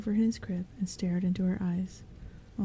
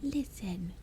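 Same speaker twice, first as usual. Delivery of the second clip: softer whispered warning; admonishing whisper; 5 dB quieter than usual. Acted. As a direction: hush them sternly. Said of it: "admonished the rest".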